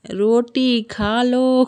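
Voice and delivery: a hint of a little girl drawing out "रोटी खा लो"; imitating a child calling. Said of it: "colony में हल्ला कर रही थी". (बच्ची की नकल में धीरे खींचा हुआ "रोटी खा लो")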